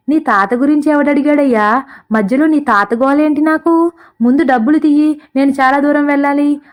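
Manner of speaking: scolding. Acted. Rich car owner scolds the rambling man, sharp mild scold. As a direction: brush him off sharply, impatient. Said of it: "అంటూ కసురుతుంది".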